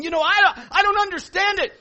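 high, very loud exclamation; acted astonished shout. People reacting to bonds breaking, imitated high shout. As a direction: holler it like an amazed churchgoer. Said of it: "people start going".

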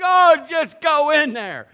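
loud, high, drawn-out exasperation; mock an impatient coach's yell; exasperated coach. Coach sending a confused player in, exasperated.

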